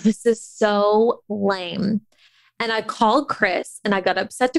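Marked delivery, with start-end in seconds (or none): 0.0-2.0 teary. Retold or imitated. Upset alone in her room.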